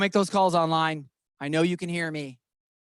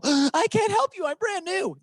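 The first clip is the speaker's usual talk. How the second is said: high, slow, meek and helpless; timid newbie voice; 5 dB louder than usual. Shown as a demonstration. Newbie agent turning down a deal, meek and high. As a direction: squeak it out like a scared rookie. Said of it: "Don't say that".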